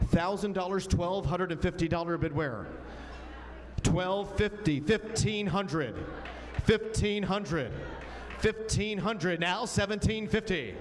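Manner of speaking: brisk auction bid calling; auctioneer. Acted. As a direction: call the bids like an auctioneer.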